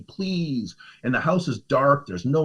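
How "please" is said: high, imitated "please"; begging. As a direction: mimic her begging, pitched up. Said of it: "Like, just begging me".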